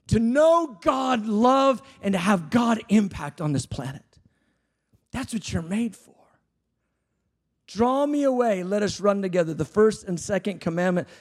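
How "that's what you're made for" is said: a soft, breathy whisper. Acted. Preacher whispering the point to the crowd. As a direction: drop it to a hush after the shout.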